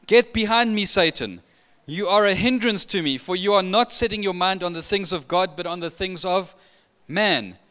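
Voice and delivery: Jesus rebuking Peter sharply; stern rebuke. Retold or imitated. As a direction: push Peter back with authority.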